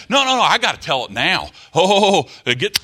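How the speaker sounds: a hammed-up can't-wait prophet bursting to speak; impatient brethren. Preacher mimicking brethren who interrupt the service, mock impatience. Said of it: "these brethren that would say".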